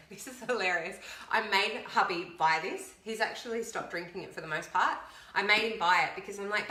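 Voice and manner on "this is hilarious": said through a laugh. Real, not acted. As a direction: chuckle as you say it.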